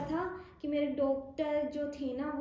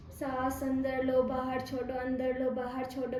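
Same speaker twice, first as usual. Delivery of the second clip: breathing instructions. Retold or imitated. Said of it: "कहते हैं ना". (धीमे से साँस लेने के निर्देश)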